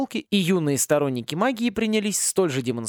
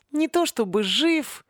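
hoarse voice; 12 semitones higher, slower than usual. Acted. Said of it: "севшим голосом ответила Мерги".

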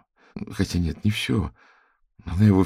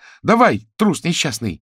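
much higher, louder contemptuous shout; furious yell; 10 semitones higher, 6 dB louder than usual. Acted. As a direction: scream at the coward to go on. Tatyana pushes Matvey, yelling.

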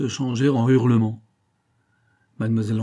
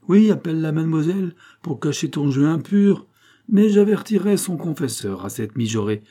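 higher, louder sarcastic scolding; acted scandalised aunt; angry scolding; 6 semitones higher, 5 dB louder than usual. A narrator's reading. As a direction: threaten with indignant scorn.

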